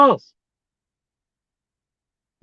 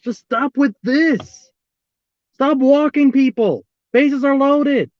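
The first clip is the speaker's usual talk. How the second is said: slow, drawn-out exasperated plea; 2 semitones higher, slower than usual. Real, not acted. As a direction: draw the words out in real exasperation. Watching his pitcher keep walking batters.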